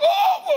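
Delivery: high howling dog cry. Retold or imitated. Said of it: "it just got louder and louder".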